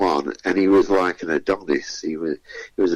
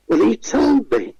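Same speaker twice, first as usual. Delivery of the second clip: much higher, put-upon complaint; whining contestant; 14 semitones higher than usual. Retold or imitated. Contestant excusing himself to producer, high whine. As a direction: blame the host like a sulky kid.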